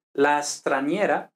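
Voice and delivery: la straniera said slowly, s and t tight together; Italian demo word. Shown as a demonstration. Teacher showing s líquida to students, slow careful Italian. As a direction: give la straniera slowly, clearly. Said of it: "Para el masculino es lo y para el femenino es igual, la".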